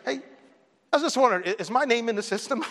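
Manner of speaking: mildly calm polite question; very calmly. Retold or imitated. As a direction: ask gently, keeping your cool. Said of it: "very calmly".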